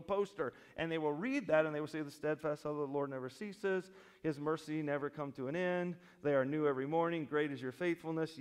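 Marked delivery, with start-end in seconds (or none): 2.0-8.4 imitating a casual reader; mock coffee-mug piety; glib verse reading. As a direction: rattle the verse off lightly, without weight. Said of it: "read that verse all by itself on a coffee mug".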